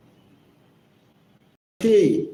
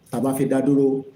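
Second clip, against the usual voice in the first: ordinary talk, nothing marked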